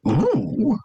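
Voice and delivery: high, eager dragon squeal; excited dragon noise. Pretend. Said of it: "Excited dragon noise".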